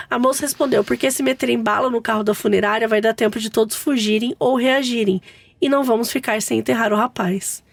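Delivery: steady, even read-aloud; story narration. A narrator's reading. Host reads mother-in-law's funeral mishap to co-hosts, story narration. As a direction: tell the tale as written, evenly.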